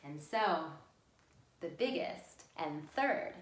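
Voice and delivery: unhurried fairy-tale ending; storytelling for children. A narrator's reading. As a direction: tell it to small children, pausing between phrases. Finishes reading story to children.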